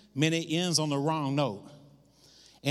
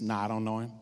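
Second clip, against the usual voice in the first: low, offhand retold denial; balking denial; 7 semitones lower, 4 dB quieter, faster than usual. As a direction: back out of it, pitch dropped low. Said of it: "balked when a servant girl said".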